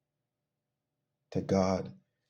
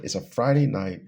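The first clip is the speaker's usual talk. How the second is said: "Friday night" punched louder; emphatic stress; 6 dB louder than usual. Real, not acted. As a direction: hit "Friday night" hard to drive the point home. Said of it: "I can't emphasize".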